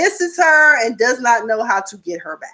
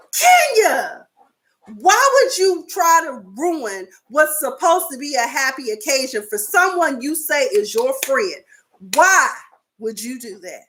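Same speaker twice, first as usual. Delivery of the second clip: incredulous confrontation; 4 semitones higher than usual. Retold or imitated. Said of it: "Candy was like".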